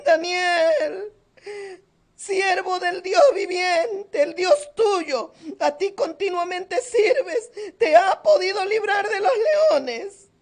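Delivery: slow, tearful call, a mild hint of crying; sad voice. King calling Daniel in the lions' den, slow sad tearful call. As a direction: call his name into the pit sadly, slowly. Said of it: "con voz triste".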